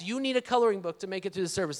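retold exasperated parent, in his own voice; hurried, disbelieving echo of the child; dad's retort. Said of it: "I'm like".

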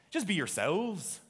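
slow, lightly attempted Scottish accent; William Wallace. Preacher repeats the secret of the epic battle, mock Scottish accent. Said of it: "switching over to my Scottish accent".

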